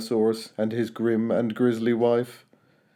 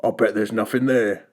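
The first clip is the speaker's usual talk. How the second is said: scoffed; 3 semitones lower than usual. A narrator's reading.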